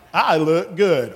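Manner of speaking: a slow, firm model line; with conviction. Shown as a demonstration. Showing children on the stairs how to say it, with conviction. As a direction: say it like you mean it. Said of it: "You have to say it with conviction".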